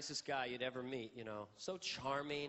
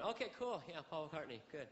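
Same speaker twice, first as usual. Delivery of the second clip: playing it cool; 4 dB quieter than usual. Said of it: "on the outside".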